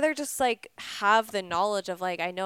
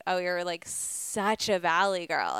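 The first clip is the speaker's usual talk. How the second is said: mock judgement; 3 semitones lower, slower than usual. Quoting people who mocked her accent.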